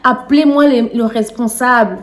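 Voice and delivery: loud, fast angry refusal; angry patient demanding the manager; losing it. Retold or imitated. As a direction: refuse to calm down, demand the boss. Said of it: "j'ai pété un câble".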